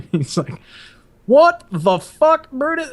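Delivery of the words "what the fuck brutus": drawn-out, high, louder mock outburst; retold outraged bellow. Master guns catches a recruit shadow boxing, retold outrage. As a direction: play a stunned superior, stretching the words.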